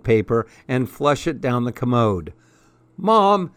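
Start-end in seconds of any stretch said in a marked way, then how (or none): 3.0-3.5 high calling "Mom"; shrill-free holler for mother. A narrator's reading. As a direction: call Mom to tattle. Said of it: "she hollered".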